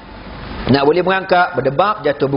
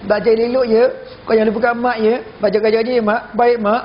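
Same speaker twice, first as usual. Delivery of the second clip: higher-pitched mother's parting advice; mock tearful goodbye; 5 semitones higher, faster than usual. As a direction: lightly act a weepy send-off. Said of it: "Nangis lagi".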